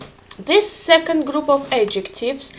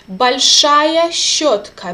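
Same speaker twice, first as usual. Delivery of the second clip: slow teacher demo; 3 dB louder, slower than usual. Shown as a demonstration. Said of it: "unstressed and stressed".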